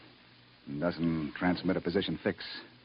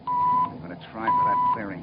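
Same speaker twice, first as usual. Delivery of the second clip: shouting; 5 dB louder than usual. Acted. Captain shouting during crash landing.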